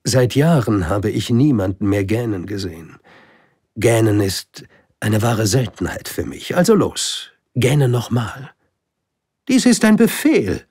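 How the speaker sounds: high, loud, coaxing then commanding; urge, then issue a decree; insistent king. Acted. (drängender König, hoch und laut, bis zum Befehl)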